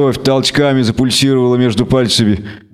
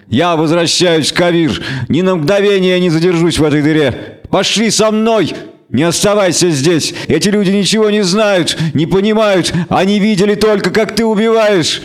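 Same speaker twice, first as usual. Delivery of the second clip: much higher, urgent, insistent; shrill urging wizard; 5 semitones higher than usual. Acted. Stregobor urges Geralt to leave the town with him. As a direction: press him to leave now.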